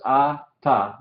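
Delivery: "a, ta" said as two separate syllables with a pause between them. Shown as a demonstration. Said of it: "dos sílabas". ("a, ta" separado en dos sílabas con pausa)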